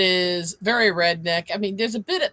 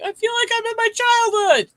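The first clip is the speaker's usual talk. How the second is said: imitating mom; 5 dB louder than usual.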